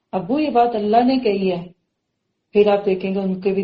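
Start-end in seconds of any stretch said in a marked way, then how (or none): 0.1-1.7 mildly affectionate telling; gently inform father, with love; loving. Shown as a demonstration. Child correcting father, lovingly. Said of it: "تو ایسے پیار سے کہے".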